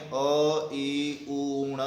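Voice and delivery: drawn अ ई उ, then ण as a full "na"; voweled final ण. Shown as a demonstration. Teacher explains what makes ण स्वर युक्त, voweled final ण. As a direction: finish ण with an open "a" vowel. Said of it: "अगर हम इस तरीके से बोलते हैं".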